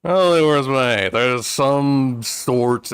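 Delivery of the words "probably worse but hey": loud echo. Pretend. Echoes chat's words.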